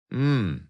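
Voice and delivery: short considering grunt; a gruff skeptical hmm. A narrator's reading. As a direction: hmm grunted through closed lips. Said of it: "grunted Strange".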